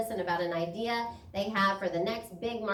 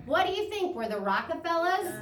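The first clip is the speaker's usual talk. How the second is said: dad's scoffing voice, higher; mock the kid's wastefulness like dad; father scolding about money, pitched up; imitating dad; 8 semitones higher than usual. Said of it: "he would say".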